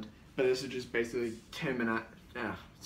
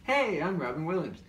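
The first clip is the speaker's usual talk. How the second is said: higher, bouncy hammed-up celebrity greeting; hyper Robin Williams; 6 semitones higher than usual. Rambunctious impersonator running around, hyper high greeting. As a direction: bounce around announcing yourself. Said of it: "running around like".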